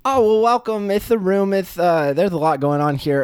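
very high, cheery squeak; squeaky fish creature. Acted. Fish creature greeting its bro friend, very high squeaky voice. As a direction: greet your buddy in a tiny high voice.

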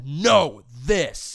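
loud, emphatic standing of ground; pissed-off insistence. Acted. Employee standing up to superiors, pissed off. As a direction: punch each word, firm and angry. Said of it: "you're more pissed than them".

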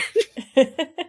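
high giggle; high laugh. Real, not acted. Laugh after quoting seers.

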